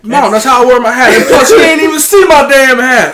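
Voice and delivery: loud, high indignant protest; retold worked-up comeback; exasperated retort. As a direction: argue back at mom, shouting. Retold argument with his mom.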